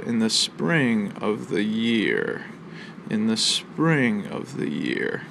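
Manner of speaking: slow, leaning on "spring" and "year", "of the" and "in the" said light; scanning the line aloud with "spring" and "year" stressed. Shown as a demonstration. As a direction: read it slowly to show where the beats fall on "spring" and "year". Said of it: "so if we say it out loud".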